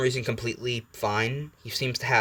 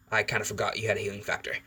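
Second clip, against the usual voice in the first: sighing; 2 semitones lower, 5 dB quieter, faster than usual. Acted. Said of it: "Wolverine kinda sighs and goes".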